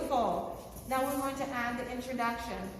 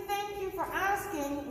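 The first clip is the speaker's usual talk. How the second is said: slow polite reply; 5 semitones higher than usual. Shown as a demonstration. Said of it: "If I say".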